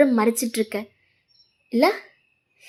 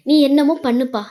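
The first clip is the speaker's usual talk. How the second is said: louder, fed-up outburst; angry snap; 3 semitones higher, 5 dB louder than usual. Acted. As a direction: throw the words at him in frustration. Girlfriend snaps during quarrel.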